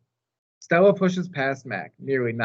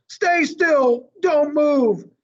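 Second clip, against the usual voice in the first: high, louder cry of alarm; panicked shout; 13 semitones higher, 5 dB louder, much slower than usual. Acted. Parents shout at their son in the ape enclosure, frightened cry. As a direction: call out to the child in fear.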